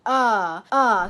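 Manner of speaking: ER as a long vowel with no R; er sound. Shown as a demonstration. Teacher isolating a vowel for learners, ER without R. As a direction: hold ER open, R silent. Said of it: "So it's the er sound".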